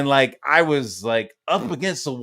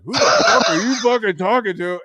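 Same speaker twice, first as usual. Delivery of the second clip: loud, raised mock-furious challenge; imitating angry dad; 7 semitones higher, 6 dB louder than usual. Dad confronting back-talking son, imitated angry challenge. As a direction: bear down on him, pitched up and forceful.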